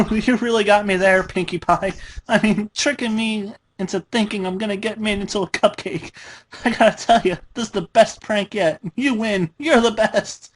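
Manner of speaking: high, fast forced cheer; bordering on hysteria. A narrator's reading. Dash pretends it is a prank, near hysterical and fast. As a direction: babble brightly to hide terror. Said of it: "in a voice bordering on hysteria".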